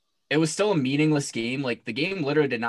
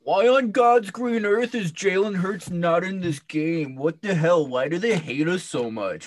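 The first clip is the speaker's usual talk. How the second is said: mock outrage; 5 semitones higher, 4 dB louder than usual. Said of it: "mocking Giants fans on Twitter".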